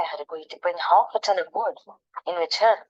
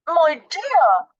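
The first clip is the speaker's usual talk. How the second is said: loud, mouth full; 9 semitones higher, 6 dB louder than usual. Acted. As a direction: call out through a mouthful. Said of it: "with his mouth so full".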